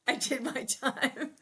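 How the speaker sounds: lightly voiced Ralph, slow and drawn out; fond slow imitation. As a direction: savour each word like a fond memory. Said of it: "I love when he would say that".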